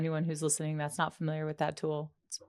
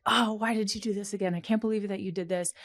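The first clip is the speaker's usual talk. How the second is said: scolding perpetrator; 5 semitones higher, faster than usual. Retold or imitated. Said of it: "you become the perpetrator of like".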